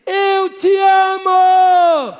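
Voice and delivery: very high, loud, slow Eu te amo; shouted love call. Shown as a demonstration. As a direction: shout it out long to the echo. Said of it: "grita assim". (grito alto e arrastado de amor)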